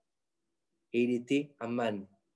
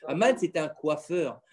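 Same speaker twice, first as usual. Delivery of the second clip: slower, each word set down deliberately; slow emphatic repeat; slower than usual. Shown as a demonstration. Father repeating for his children, slow and deliberate. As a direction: repeat it slowly so the kids get it.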